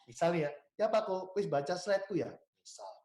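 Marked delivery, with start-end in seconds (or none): 0.7-2.3 пример обращения к клиенту. Shown as a demonstration. Example of calling a client.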